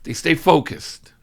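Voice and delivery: hushed whisper. Real, not acted. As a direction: whisper the key point. Whispered point in sermon.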